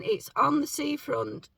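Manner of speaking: rough, croaky morning voice. Real, not acted. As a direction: say it with a just-woken throat. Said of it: "Sorry, I've got my morning voice again".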